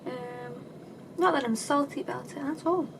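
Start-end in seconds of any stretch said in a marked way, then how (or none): 1.2-2.9 dry sarcastic denial. Real, not acted. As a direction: say it as if clearly salty. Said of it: "You guys are picking up on the sarcasm".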